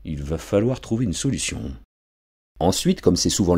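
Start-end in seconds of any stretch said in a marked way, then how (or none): 0.0-1.6 muttered much softer under his breath. Acted. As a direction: mutter it to yourself. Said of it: "son père marmonner".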